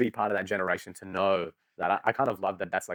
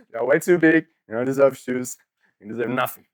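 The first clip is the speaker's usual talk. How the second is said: mock rant; 3 semitones higher, 7 dB louder than usual. Mock condemning size twelve feet.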